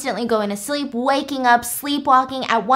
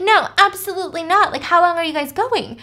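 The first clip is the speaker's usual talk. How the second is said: raised, higher voice, outraged no; angry refusal; 5 semitones higher, 4 dB louder than usual. Retold or imitated. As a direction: flatly refuse the ex, getting louder. Mom refuses ex-husband angrily.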